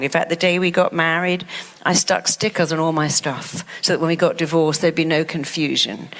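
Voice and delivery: low, gloomy self-talk; self-critical inner voice. Retold or imitated. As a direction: mutter it like your harsh inner critic. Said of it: "when you say".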